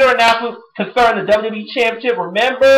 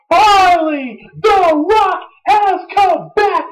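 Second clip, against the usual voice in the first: excited; 11 semitones higher, slower than usual. Real, not acted. Excited about Rock's return.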